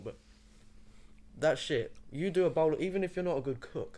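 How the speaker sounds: speaking through a mouthful. Mid-conversation while eating, apologizing and carrying on: talking with mouth full. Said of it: "I've got a mouthful".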